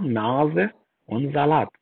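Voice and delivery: "Nase" and "Salat" with a buzzed z. Shown as a demonstration. Teacher giving examples of voiced S, "Nase" and "Salat" with z. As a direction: say "Nase" as nah-ze, "Salat" as za-laht.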